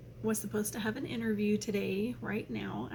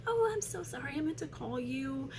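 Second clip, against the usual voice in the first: apologetic receptionist; 4 semitones higher than usual. Retold or imitated. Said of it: "she was like".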